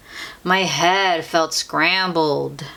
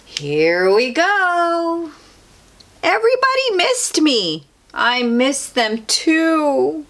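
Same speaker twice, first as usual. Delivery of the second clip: 1 excited; 9 semitones higher than usual. A narrator's reading. Returning home to friends.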